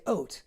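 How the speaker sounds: "oat" for out, with a long O; Nova Scotian "out". Shown as a demonstration. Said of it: "Nova Scotians say oat".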